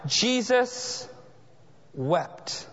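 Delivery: soft and low, let wept fall away; a sorrowful near-whisper on wept; hushed sorrow. Acted. Preacher reading the shortest verse to the church, hushed sorrow.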